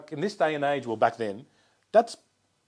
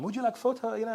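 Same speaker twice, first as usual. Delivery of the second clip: put-on accent imitating a singer; 9 semitones higher, 3 dB quieter than usual. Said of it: "it's not his accent".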